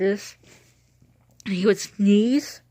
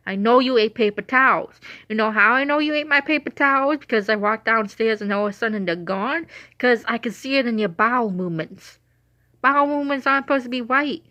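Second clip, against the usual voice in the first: raised-pitch playful telling-off; mock scolding; 3 semitones higher, 3 dB louder than usual. Owner confronting dog over eaten paper towels, mock scolding. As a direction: scold a pet caught lying, half in fun.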